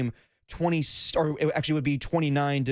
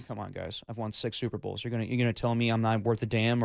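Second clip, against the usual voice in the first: much lower and softer grumble; low mumbling Belichick; 5 semitones lower, 4 dB quieter than usual. Retold or imitated. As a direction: grumble it like a sour old coach. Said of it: "Bill Belichick ... being like".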